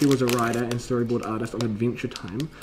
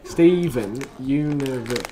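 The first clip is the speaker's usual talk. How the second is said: meme review announcer; slower than usual. Pretend. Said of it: "Doing meme review style".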